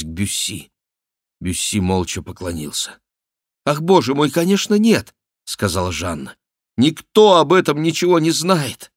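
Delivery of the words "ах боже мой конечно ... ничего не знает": высоко и громко; воскликни с жаром; горячее восклицание. A narrator's reading. (Жанна восклицает)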